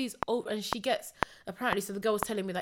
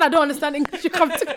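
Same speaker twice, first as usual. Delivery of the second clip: mock frustrated girl; 5 semitones higher, 9 dB louder than usual. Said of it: "I said".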